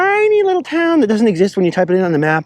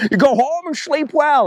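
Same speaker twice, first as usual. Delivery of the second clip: slow, much higher, drawn-out line; hammed-up misquote; 9 semitones higher than usual. Imitating friend's over-the-top misquote, slow and high. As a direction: stretch it out like an over-the-top movie quote. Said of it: "quoting it wrong".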